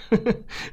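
short airy chuckle; a quick breathy laugh; soft breathy laugh. A narrator's reading. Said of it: "засмеялся Зайцев".

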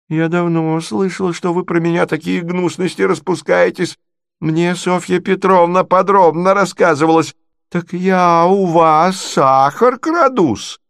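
high, indignant scolding voice; offended provincial lady. Acted. Natalya confronts Marya over gossip, high and indignant. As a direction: press each grievance home, pitched well up.

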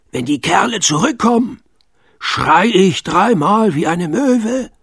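called softly. A narrator's reading. Sven calling after Pitt on the ladder. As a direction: call after him urgently. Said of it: "rief Sven ihm leise hinterher".

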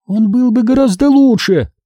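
high-pitched defiant retort; high, provocative comeback. A narrator's reading. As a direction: declare it high, as a challenge. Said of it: "вызывающе заявила Минди".

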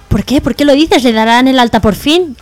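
a wife excited for good news; hopeful. Retold or imitated. (ilusionada, preguntando con ganas)

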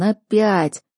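weary moaned word; groan. A narrator's reading. Dameron groans опять at the news, weary moan. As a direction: moan опять with tired dismay. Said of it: "простонал Дэмерон".

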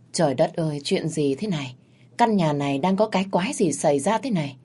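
ordinary delivery

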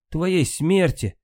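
high, slow cry of a word; impetuous cry. A narrator's reading. Queen answers Sigurd with a high slow cry. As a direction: fling it out high and drawn-out. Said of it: "порывисто вскричала королева".

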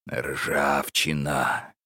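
slow, chilling single word; ominous. Acted. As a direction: drag it out to send a chill. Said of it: "произнёс это слово так, что по спине ... холодок".

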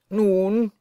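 loud impatient shout; Blaubart shouting. Acted. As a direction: bark it so the house shakes. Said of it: "schrie Blaubart zum vierten Male". (Blaubart brüllt ungeduldig, lauter)

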